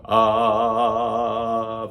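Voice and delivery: long, loud, steady "ah" at speaking pitch; sustained ah. Shown as a demonstration. Teacher models a sound for the class, long steady ah. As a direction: model a held vocal ah. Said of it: "make a sound go".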